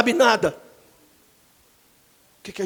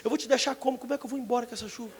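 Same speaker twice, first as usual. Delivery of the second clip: laughing retort; 9 dB quieter, faster than usual. Retold or imitated. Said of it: "Ela fala assim".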